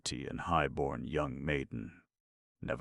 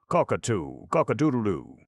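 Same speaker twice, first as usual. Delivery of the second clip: higher, louder fond cockerel call; 7 semitones higher, 7 dB louder than usual. A narrator's reading. Fat suitor calling fondly to his love. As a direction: coo it to the sweetheart. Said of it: "called in fond tones".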